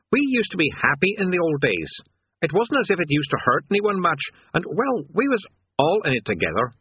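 put-on a sulky old demon missing the good days; sullen demon. Demon reminiscing to Rincewind, sullen and nostalgic.

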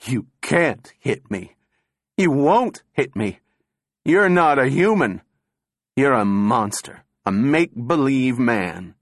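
high-pitched, forceful jeer, no real laughter; wild taunting. A narrator's reading. Thin man taunts the candidate before the crowd, wildly jeering. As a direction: goad him with rising wildness. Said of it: "The thin man was laughing wildly".

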